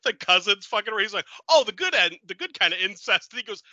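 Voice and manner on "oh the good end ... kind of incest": higher and louder, eager guard; hammed-up eager voice; mock enthusiasm. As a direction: gush about it like a goofy fan. Retold guard's enthusiastic line.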